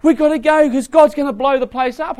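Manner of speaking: acted panic, high and urgent; high-pitched, stressed-out pleading. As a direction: play a frantic warning to family. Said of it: "he's stressed and he says".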